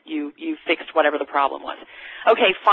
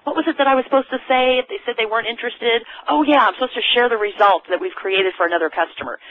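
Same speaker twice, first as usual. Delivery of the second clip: thinking aloud; 5 semitones higher than usual. Retold or imitated. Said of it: "And you're trying to remember".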